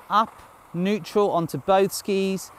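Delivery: called out high and slow; cheery ski instructor shouting. Shown as a demonstration. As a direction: coach calling the move across the slope. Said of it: "coach calling out the move".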